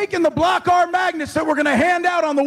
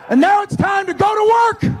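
rallying shout; 4 semitones higher than usual. Real, not acted. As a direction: fire up the crowd. Coach rallying fans at rally.

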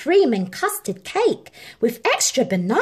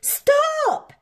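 shout. A narrator's reading. Harry stopping the cat at the Queen's bed, shouting. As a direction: yell to halt the thief. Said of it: "shouted Harry".

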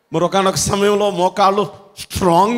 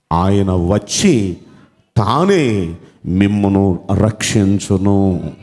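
slow weighty scripture reading; slow solemn reading; 6 semitones lower, much slower than usual. Shown as a demonstration. Preacher rereading the verse to the church, slow and solemn. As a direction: let each word of the verse land slowly. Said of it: "నేను మీకోసం మరలా చదవాలనుకుంటున్నాను".

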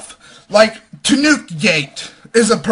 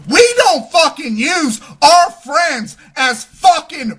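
angry shout; 5 semitones higher, slower than usual. Real, not acted. Vlogger shouting that they never use their friends, angry shout. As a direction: pound out every word in fury.

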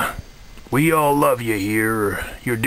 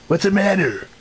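a lightly put-on Kermit the Frog voice; a mild Kermit impression, close to his own voice; new Kermit voice. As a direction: do Kermit, but not quite the usual one. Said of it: "this is my new voice".

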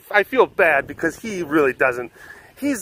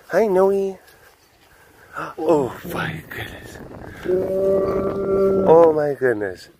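higher, gushing hello; excited greeting; 7 semitones higher, much slower than usual. Real, not acted. Greeting the animal, high and gushing. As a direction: gush over her happily.

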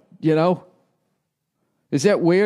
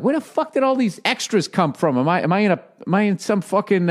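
bewildered disbelief; 6 semitones higher than usual. Retold or imitated. Retold reaction to passengers.

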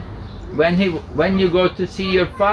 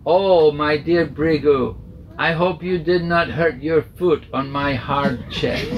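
gentle kindness. Acted. Vishnu answers the kick kindly.

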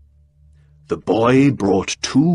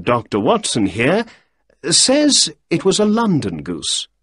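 lightly raised, higher Holmes voice; 4 semitones higher than usual. Acted. Narrator voicing Holmes questioning the innkeeper, lightly higher. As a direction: read Holmes a touch higher than narration.

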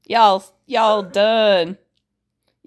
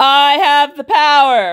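sneering panto villain; 6 dB louder than usual. Pretend. Mom gloating over manager role.

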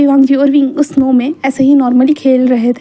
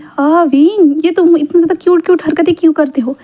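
fond exasperation; 4 semitones higher than usual. Acted. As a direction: coo fondly over someone cute. Wangji fondly thinks Wing is cute.

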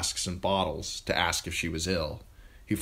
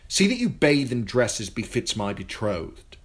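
higher, louder royal command; haughty young king; 5 semitones higher, 5 dB louder than usual. A narrator's reading. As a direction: order her like a spoiled boy king. Joffrey commands Sansa.

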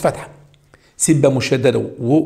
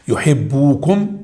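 slow reading with a rise; much slower than usual. Shown as a demonstration. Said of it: "في مشكلة".

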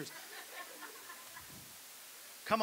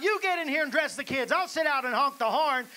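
mock yell; 5 semitones higher, 6 dB louder than usual. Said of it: "She yells out".

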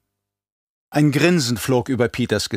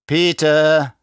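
sharp rebuke; 7 semitones higher, 6 dB louder than usual. Acted. Baron snaps at mentat.

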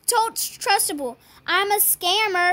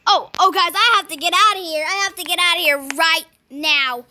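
loud hurried alarm; urgent panic; 5 dB louder than usual. Real, not acted. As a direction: rush to escape. Fleeing after the trade.

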